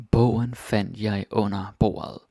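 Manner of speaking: slowed sentence with a clear weight on Bogen; slow teaching read; slow, careful reading. Shown as a demonstration. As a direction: spell it out word by word for learners. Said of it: "Some more examples of that".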